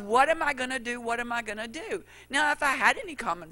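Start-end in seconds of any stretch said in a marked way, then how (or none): 0.0-1.0 mock panic. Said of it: "that explosion". 1.0-2.0 fading panic. Retold or imitated. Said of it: "that explosion".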